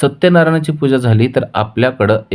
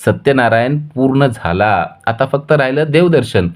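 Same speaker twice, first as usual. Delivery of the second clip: bubbling over with plans for their life together; happy; 2 semitones higher than usual. Acted. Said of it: "आनंदाने ऊर्जाला म्हणतोय".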